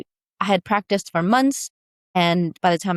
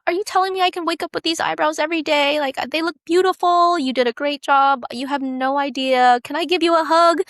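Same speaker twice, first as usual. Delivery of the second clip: quoting the crying client; 8 semitones higher than usual. Retold or imitated. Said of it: "she starts crying".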